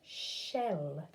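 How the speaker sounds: "Shell" said whole, falling; blended word. Shown as a demonstration. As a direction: blend the sounds into one word. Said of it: "Blend it together".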